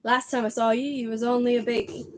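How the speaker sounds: loosely attempted giant's accent, a bit loud; Hagrid accent. Giant greeting the boy he knew as baby, attempted accent. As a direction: have a go at the giant's rustic accent. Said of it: "I can't do Hagrid's accent".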